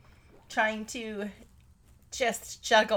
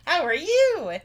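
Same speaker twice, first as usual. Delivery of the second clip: louder and higher, clearer; louder repeat; 5 semitones higher, 5 dB louder than usual. Real, not acted. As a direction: say it again so she hears.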